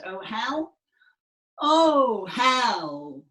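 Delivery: loud rising cry on the second Oh; despairing wail. Shown as a demonstration. Teacher leading Hermia's despairing gesture phrase, wailing. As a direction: bewail her lot. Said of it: "a despairing move".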